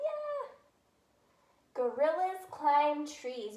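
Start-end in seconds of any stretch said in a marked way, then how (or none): 1.7-3.6 slow reading aloud. Shown as a demonstration. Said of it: "all my pieces of a five-star sentence".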